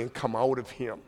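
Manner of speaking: low, soft firm command; calm stern exorcism command. Retold or imitated. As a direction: quietly cast it out with authority. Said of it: "He said sternly".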